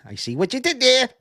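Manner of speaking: high, loud knowing voice; mock smug quip; high mock smug quote. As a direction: tease him with a smug I-see-you. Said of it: "He's like".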